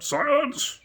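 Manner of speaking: very high, loud shout of "Silence"; called out. A narrator's reading. The king calling the court to silence, high and loud. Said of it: "called out".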